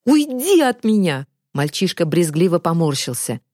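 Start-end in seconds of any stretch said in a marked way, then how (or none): 0.1-1.3 higher, disgusted outburst; angry rejection. A narrator's reading. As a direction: push a friend away with words. Boy rejects his friend angrily. (зло и брезгливо)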